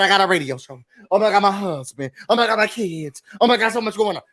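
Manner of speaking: rattled-off mock complaint, each bit dropping at the end; mocking busy Wendy. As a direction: imitate someone frantically listing how busy she is. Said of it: "That's what Wendy Osefo is doing now".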